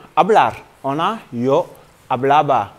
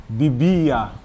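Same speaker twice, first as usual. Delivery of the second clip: bibia with the middle i stressed and held; 4 semitones lower than usual. Shown as a demonstration. Spanish teacher showing the accent in bibia, stressed second i. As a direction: say bibia slowly, leaning on the second i. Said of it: "On met toujours l'accent".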